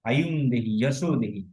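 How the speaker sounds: আয়ুম দেহি, যশো দেহি with held vowels; recitation demo. Shown as a demonstration. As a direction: recite each phrase of আয়ুম দেহি, যশো দেহি separately, falling. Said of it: "এভাবে উচ্চারণ করতে হবে".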